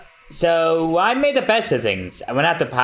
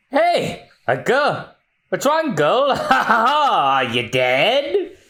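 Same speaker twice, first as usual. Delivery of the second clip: high pirate voice; 8 semitones higher, much slower than usual. Acted. Pirate finds woman in boat.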